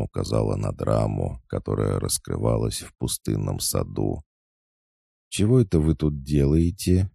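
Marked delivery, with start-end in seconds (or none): 5.3-7.1 high, lilting nosy question; sweet sing-song. A narrator's reading. Girl peeking in at friends in the bushes, sweetly sing-song. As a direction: coo it sweetly, prying. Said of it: "мило пропела Волкова".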